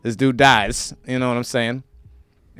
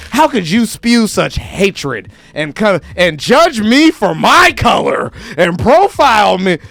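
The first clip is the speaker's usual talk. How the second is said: mock offended victim; 4 semitones higher, 5 dB louder, slower than usual. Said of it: "all I said was".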